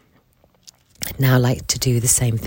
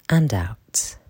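right in your ear. Acted. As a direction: breathe the words out in a whisper. Whispered breathing cue.

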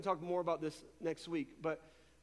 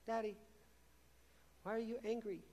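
put-on squeaky child voice; 3 semitones higher, 7 dB quieter, faster than usual. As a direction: gently voice a little boy from the back seat. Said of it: "this little squeaky voice from the back seat".

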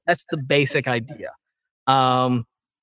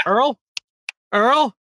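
raised, high calling; calling out a name; 9 semitones higher than usual. Real, not acted. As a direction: call out for someone who vanished. Calling out to vanished guest.

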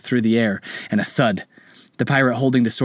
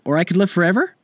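put-on eager child voice; 8 semitones higher, faster than usual.

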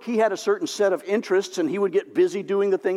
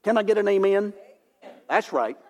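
put-on old-time preacher. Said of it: "holy spit preachers that pound on the pulpits".

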